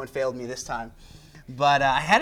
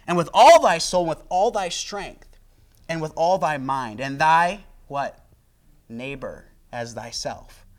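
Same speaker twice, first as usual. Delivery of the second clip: scripture reading; 4 dB louder than usual. Acted. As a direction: read the verses with weight. Reads scripture aloud to congregation.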